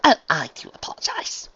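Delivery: apologetic. Acted. Unicorn calms down after tackling her friend, apologetic. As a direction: apologize daintily, collecting yourself. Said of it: "calming down".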